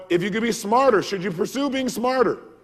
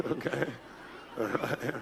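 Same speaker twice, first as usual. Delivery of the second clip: laughing; 6 semitones lower, 10 dB quieter than usual. Real, not acted. Laughing after drawl imitation.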